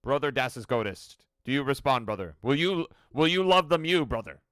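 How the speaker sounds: lightly played battle brother; a hint of solemn space marine; mock-solemn address to a fellow warrior; Warhammer space marine. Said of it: "sounded like it was from Warhammer".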